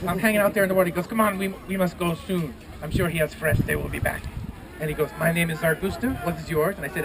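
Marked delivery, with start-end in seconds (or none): 1.1-4.2 lightly voiced griffin with French-Spanish accent; hint of mock French-Spanish. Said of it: "French, Spanish thing going on there". 5.2-6.7 lightly voiced griffin with French-Spanish accent; hint of mock French-Spanish. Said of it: "French, Spanish thing going on there".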